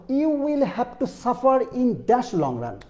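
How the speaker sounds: very slow, word by word example sentence; slow dictation read. Shown as a demonstration. Teacher dictating a test sentence very slowly. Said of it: "teacher reads example sentence slowly".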